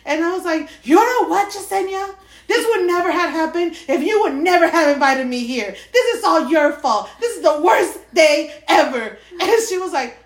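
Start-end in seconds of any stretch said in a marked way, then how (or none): 0.8-9.2 angry. Retold or imitated. Angry accusation retold.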